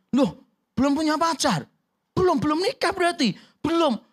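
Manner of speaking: nosy aunt asking about marriage. Retold or imitated. Tante bertanya, dialog diperankan. (tante kepo bertanya dengan suara tinggi)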